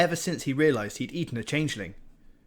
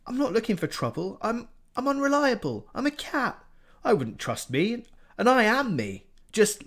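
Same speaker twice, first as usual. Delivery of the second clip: higher, rushed, pleading cat voice; panicky cat Morris; 6 semitones higher, 4 dB louder than usual. A narrator's reading. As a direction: babble to get out of trouble.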